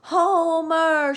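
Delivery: high, loud call across the yard; cried out. A narrator's reading. Mrs. Zuckerman calling the men from the kitchen window, shouting. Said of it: "she cried".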